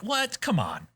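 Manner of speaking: mock incredulous, high squeal then drop; high-pitched 'what' falling into a protest; disbelieving. Host reliving their reaction to the show, disbelieving.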